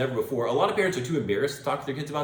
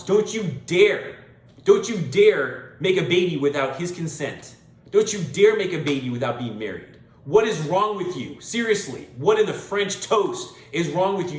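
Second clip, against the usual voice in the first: scolding; 3 semitones higher, 4 dB louder than usual. Real, not acted. Scolding single mothers.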